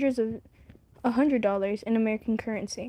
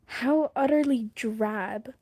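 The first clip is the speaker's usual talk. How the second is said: snooty; slower than usual. Acted. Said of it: "sounds like a snooty character".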